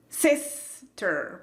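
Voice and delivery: SISTER split, with SIS stressed over TER; slow sister, heavy first half, dropped second; uneven sister. Retold or imitated. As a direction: imitate overstressing the first syllable of sister. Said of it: "¿Por qué no lo dices más uniforme?".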